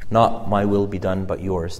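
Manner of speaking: low, soft prayer of acceptance; hushed surrender. Acted. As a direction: let it sink quietly into submission. Jesus submitting to the Father.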